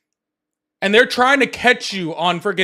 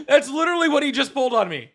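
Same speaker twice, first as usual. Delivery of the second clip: laughing; 6 semitones higher than usual. Real, not acted. Laughing at caller's trick.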